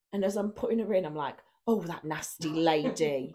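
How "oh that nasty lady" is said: mock sympathy. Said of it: "loud enough that she can probably hear me".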